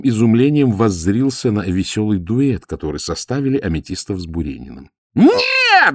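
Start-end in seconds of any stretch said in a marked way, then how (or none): 5.1-5.9 high, loud cry of no; shout. A narrator's reading. Cousin shouting at the count, loud cry. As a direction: yell it out sharply. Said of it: "закричал кузен".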